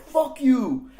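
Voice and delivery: loud high laughing curse; mock yell, laughing; laughing shout. Retold scene, shouted while laughing.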